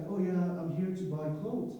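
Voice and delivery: ordinary delivery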